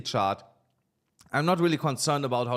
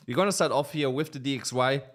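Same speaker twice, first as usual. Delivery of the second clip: talking with something in mouth; mouth full; 2 semitones higher than usual. Real, not acted. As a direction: speak around something in your mouth. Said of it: "I have something in my mouth".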